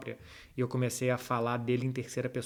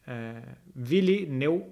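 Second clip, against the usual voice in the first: slow puzzled reading; much slower than usual. Real, not acted. Reading an odd username slowly.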